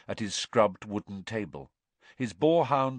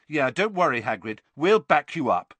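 louder, higher, eager support; hearty reassurance; 6 semitones higher, 7 dB louder than usual. A narrator's reading. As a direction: rally round a friend. Friend backs up upset Hagrid.

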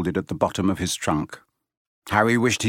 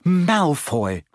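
put-on higher, trembling boy's voice; a hint of frightened Neville; shaky; 7 semitones higher than usual. A narrator's reading. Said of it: "said Neville shakily".

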